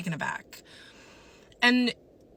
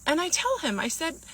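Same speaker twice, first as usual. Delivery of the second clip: ordinary talk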